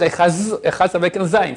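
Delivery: "Echaz" ending on a buzzed z; wrong "Echaz", z in place of the d; D as buzzing Z. Shown as a demonstration. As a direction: say "Echaz" with a final Zayn sound. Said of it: "On peut pas faire".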